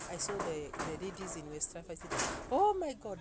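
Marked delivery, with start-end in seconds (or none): 2.5-3.2 loud, high exclamation; hammed-up appalled outburst; retold shock. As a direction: cry out aghast, pitched up. Retold shock at West African ladies.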